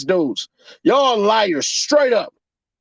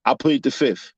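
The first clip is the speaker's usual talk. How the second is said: much lower, quieter sheepish mumble; mock dumb boyfriend; 10 semitones lower, 3 dB quieter than usual. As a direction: say it low like a clueless guy. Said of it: "your dumb ass gonna sit there and say".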